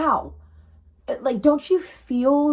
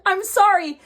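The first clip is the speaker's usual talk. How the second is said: laughing apology; 8 semitones higher, 7 dB louder than usual. Real, not acted.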